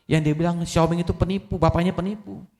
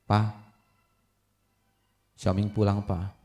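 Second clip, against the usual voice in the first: tearful; 5 semitones lower, 5 dB quieter than usual. Acted. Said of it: "Nangis dia".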